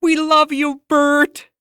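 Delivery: high, loud adoring fan cry; screaming fan. Acted. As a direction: call out to your idol from the crowd. Fans cheering outside Bert's house.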